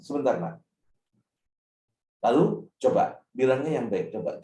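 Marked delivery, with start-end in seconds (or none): 0.0-0.6 calm. Shown as a demonstration. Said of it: "kita bilang".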